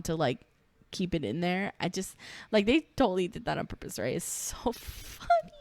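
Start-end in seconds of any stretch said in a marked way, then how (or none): 4.2-5.5 breathy laugh breaking through the words; can't hold back a real giggle. Real, not acted. Vlogger cracking up at the toes shot, laughing.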